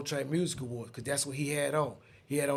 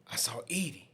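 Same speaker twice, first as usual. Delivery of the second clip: hushed whisper as if seeing her; 6 dB quieter than usual. Retold or imitated. Telling friends he spotted her, whispering. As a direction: drop to a whisper.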